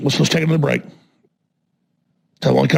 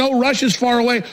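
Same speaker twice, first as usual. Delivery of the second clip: lightly mocked naive voice, higher; mimicking complacency; 4 semitones higher than usual. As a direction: brush it off like someone oblivious, imitated. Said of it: "we have this normalcy bias".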